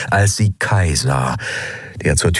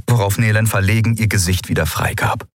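usual speaking voice

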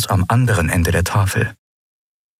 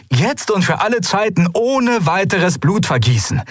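earnest, much higher plea; pleading adviser; 7 semitones higher than usual. A narrator's reading. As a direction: swear it with folded hands. Galet pleads with folded hands. (flehend, viel höher)

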